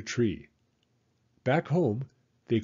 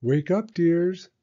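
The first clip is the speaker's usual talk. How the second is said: mother calling; 5 semitones higher, 5 dB louder, slower than usual. A narrator's reading. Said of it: "Mother's voice called".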